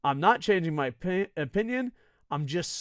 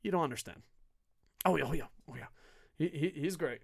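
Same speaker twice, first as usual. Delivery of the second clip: patronizing; 6 dB quieter, faster than usual. Pretend. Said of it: "pat you on the head and be like".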